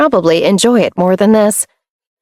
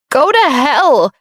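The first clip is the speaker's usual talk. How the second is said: bitter retort; 7 semitones higher, slower than usual. A narrator's reading. Monica screaming while fleeing.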